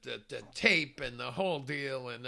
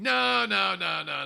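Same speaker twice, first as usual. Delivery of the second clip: firm refusal; 4 semitones higher, 8 dB louder, slower than usual. Retold or imitated. Second director refusing.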